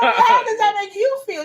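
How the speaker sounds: exasperated, half-laughing challenge; frustrated. Real, not acted. Ranting to her friend about judgmental funerals, frustrated and half-laughing. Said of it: "I see how frustrated you're getting right now".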